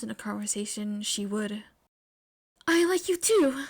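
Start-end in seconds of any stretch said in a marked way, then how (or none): 2.7-3.6 loud, higher declaration; shy girl finally declaring her feelings; firm declaration. Acted. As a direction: declare it boldly. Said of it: "Momo declared".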